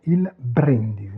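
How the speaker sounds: "il brindisi" with a short stressed BRIN; teacher's model of "brindisi", first vowel short; no vowel lengthening. Shown as a demonstration. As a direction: punch BRIN in "brindisi" without stretching it. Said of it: "donc pas d'allongement vocalique".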